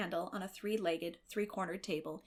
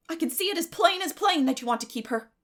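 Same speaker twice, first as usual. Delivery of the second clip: louder and higher, exasperated; 8 semitones higher, 8 dB louder than usual. Acted. Marilla to Matthew, louder and exasperated. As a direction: let it burst out.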